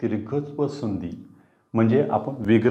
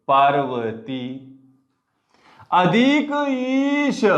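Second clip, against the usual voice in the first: drawn-out dictation; 5 semitones higher, much slower than usual. Shown as a demonstration. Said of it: "मग यापासून बघा".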